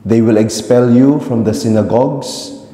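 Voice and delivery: reverberant church acoustics; cathedral echo. Real, not acted. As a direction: voice ringing through a big church. Gospel read in resonant church.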